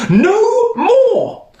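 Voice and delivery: very high, loud cry; queen demanding it stop; queen shrieking. Acted. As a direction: squeal it like a panicked queen.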